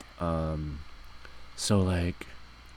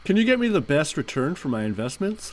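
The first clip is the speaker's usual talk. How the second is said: high customer voice; 9 semitones higher, 6 dB louder than usual. Acted. Fake customer voice.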